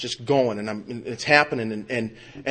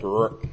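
queasy groan; 3 semitones lower than usual. Retold or imitated. Acts reaction to the incision.

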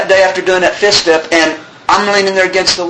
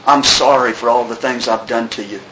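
somber apology; 6 semitones lower than usual. Retold or imitated. Reads friend's suicide note.

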